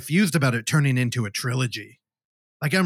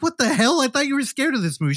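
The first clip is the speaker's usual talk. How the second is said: retold surprise; 10 semitones higher, faster than usual. Dad's surprise in retold story.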